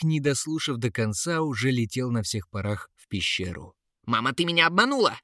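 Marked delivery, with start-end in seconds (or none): 4.0-5.2 louder, higher and fast; wailing cry. A narrator's reading. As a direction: burst in crying out to mother. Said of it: "завопил он с порога".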